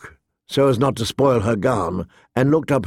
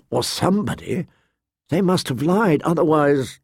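lightly voiced pleading girl; 2 semitones higher than usual. Sansa begs mercy for her father, earnest pleading. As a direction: plead gently for a father's life.

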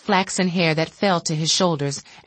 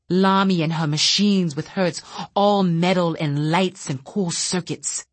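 bitter rant. Acted. Bitter telepath lashing out quietly.

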